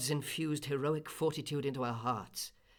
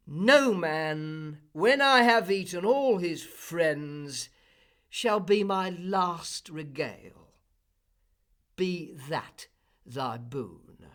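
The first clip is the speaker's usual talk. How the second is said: louder, slow, menacing giant; Cyclops voice; 2 semitones higher, 7 dB louder, slower than usual. A narrator's reading. The Cyclops answers Odysseus, slow menacing giant. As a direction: savour the cruel promise slowly.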